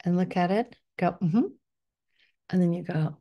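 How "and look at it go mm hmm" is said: guided meditation. Acted. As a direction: lead the listener inward gently. Guided visualization instructions.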